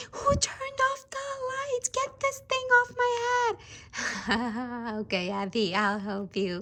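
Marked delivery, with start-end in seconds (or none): 0.1-4.9 high, indignant little doll; a tiny doll griping in the dark; squeaky doll voice. Pretend. Doll stuck in the dark, high and complaining.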